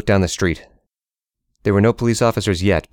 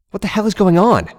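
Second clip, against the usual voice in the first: bewildered; 12 semitones higher than usual. Acted. Joe confused inner panic.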